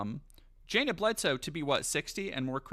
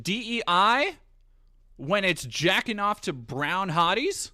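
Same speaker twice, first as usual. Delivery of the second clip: louder, higher, slow and deliberate call-out; loud mock rant; 7 semitones higher, 9 dB louder, slower than usual. Real, not acted. Streamer calling out chatter Grumps, loud sarcastic rant.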